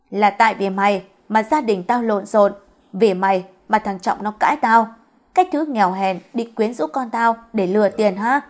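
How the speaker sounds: acted angry tirade; mildly heated scolding, driving the blame home; cursing. Mother abuses the poor girl while hitting her, angry cursing. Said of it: "cùng với những lời chửi rủa".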